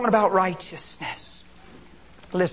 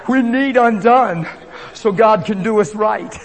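preaching shout; 4 semitones higher, 9 dB louder than usual. Acted. Preacher rising to full force.

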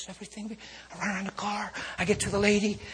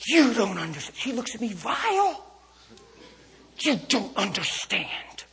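distraught lady; 5 semitones higher, 4 dB louder than usual. Retold or imitated.

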